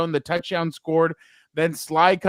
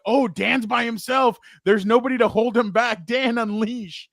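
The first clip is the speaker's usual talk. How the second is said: imitating riled-up onlookers, raised voice; mock hype, drawing out the last words; excited crowd; 5 semitones higher than usual. Host retelling how everybody egged Dan on, excited. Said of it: "everybody got excited".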